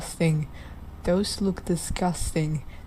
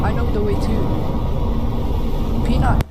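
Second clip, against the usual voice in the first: calling out; 3 semitones higher, 6 dB louder than usual. Real, not acted. Calling the creature that leads off.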